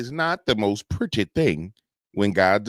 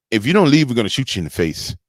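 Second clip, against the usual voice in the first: mock threat; 3 semitones higher, 7 dB louder than usual. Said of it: "I wish he would say".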